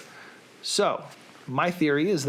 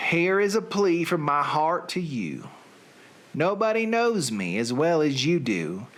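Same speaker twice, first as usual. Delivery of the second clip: a lightly put-on Southern accent. Reading song lyrics to his listeners, in a light Southern accent. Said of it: "with a Southern accent".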